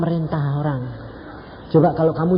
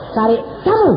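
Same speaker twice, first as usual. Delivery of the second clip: louder, higher blunt "cari kamu"; blunt retort; 8 semitones higher, 5 dB louder than usual. Retold or imitated. Preacher retelling his blunt answer at the gate. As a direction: cut her off flatly. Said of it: "nggak tanya-tanya".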